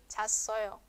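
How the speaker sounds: chasoyo with one short a; contracted form. Shown as a demonstration. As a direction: cha and a merged in chasoyo. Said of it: "una sola sílaba".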